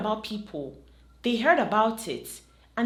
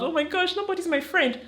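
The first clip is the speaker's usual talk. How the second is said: higher, hammed-up self-pity; mock whining; 10 semitones higher than usual. Mocking someone crying about friendship, higher and whiny. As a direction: play a mock crybaby moaning. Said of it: "She's not gonna start crying about".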